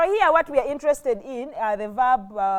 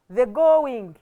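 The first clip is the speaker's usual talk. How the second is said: "going" pressed out louder; emphasis on GOING; 6 dB louder than usual. Shown as a demonstration. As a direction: lean firmly on "going". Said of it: "we wanted to put emphasis on".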